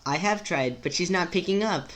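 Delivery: composed, unbothered character voice; Rose voice. Acted. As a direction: sound like nothing bothers you. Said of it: "make Rose sound like nothing bothers her".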